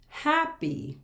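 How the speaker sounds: high "happy", split hap-py; syllable by syllable. Shown as a demonstration. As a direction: say "happy" in two separate pieces. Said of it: "That has two syllables".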